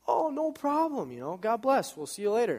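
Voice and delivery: high, breezy friendly reply; cheery brush-off. Retold or imitated. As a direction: imitate someone easygoing and upbeat. Jim's friendly reply, acted.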